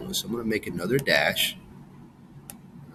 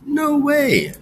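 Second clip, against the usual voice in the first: emphatic no; 4 dB louder than usual. Shown as a demonstration. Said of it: "would I double the M".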